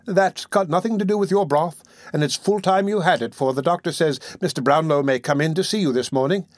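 put-on a motherly old nurse fussing gently; old lady voice. Old nurse coaxing the sick boy to eat, lightly voiced.

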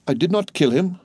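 high, stunned question; a servant horrified that his victim lives; aghast disbelief. A narrator's reading. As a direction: gasp it out, unable to believe your eyes. Servant sees the man he stabbed.

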